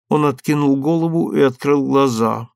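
usual speaking voice

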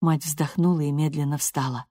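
usual speaking voice

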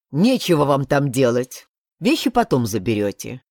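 ordinary delivery

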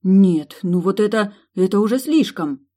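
angry at her friends, loud and high; angry outburst. Acted. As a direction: blow up at the prank. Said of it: "По-настоящему разозлилась она".

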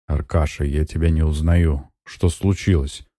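plain reading voice

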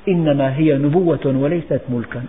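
said softly and calmly: إنما هي نبوة وليست ملكا; soft, understated prophetic reply; gentle quiet reply. Retold or imitated. Prophet's reply to Umar, quoted twice.

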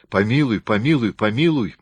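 rapid tearful pleading. A narrator's reading. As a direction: gabble for mercy through sobs. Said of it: "Скороговоркой, захлёбываясь слезами, громко".

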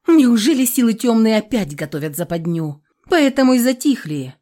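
worried gasp of alarm. Acted. Alarmed question about dark forces.

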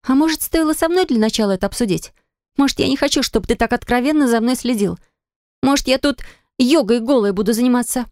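sarcastic wife pushing back; indignant wife. A narrator's reading.

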